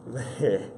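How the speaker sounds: short, helpless chuckle; rueful laugh. Real, not acted. Streamer frustrated by glitches, rueful chuckle.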